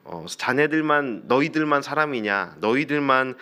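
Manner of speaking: lightly acted sarcasm, stretching the first words; sarcastic sneer. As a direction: needle them with understated mockery. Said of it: "비아냥거리는 듯한 말로".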